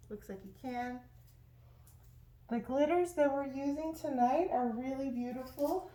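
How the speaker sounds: talking through a face mask; muffled voice behind a mask. Real, not acted. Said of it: "sorry if my voice is muffled, I have a mask on".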